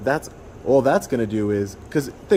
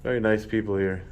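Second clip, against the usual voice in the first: sarcastic; 3 dB quieter than usual. Real, not acted. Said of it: "I'm being sarcastic".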